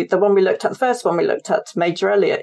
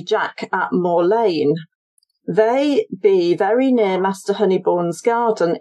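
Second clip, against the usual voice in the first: measured, deliberate letter reading; reading a letter aloud. Acted. Historian reads an anonymous warning letter to the audience, reading aloud. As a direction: read out an old warning letter, spacing the phrases. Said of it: "Shall I read that one out loud".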